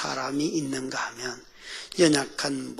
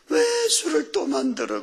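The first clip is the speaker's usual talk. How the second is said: high, plaintive retold wail; acted crying complaint; 11 semitones higher than usual. Weeping reader questioning Jesus about wine, mock crying. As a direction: whimper the protest at a raised pitch. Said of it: "우는 거예요".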